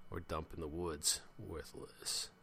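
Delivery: low mutter fading away; soft, low, defeated voice. A narrator's reading. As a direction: mutter bleakly, trailing into near silence. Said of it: "muttered Jeremy".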